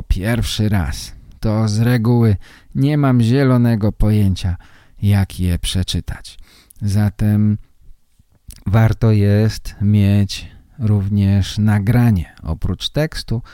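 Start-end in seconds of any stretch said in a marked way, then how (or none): none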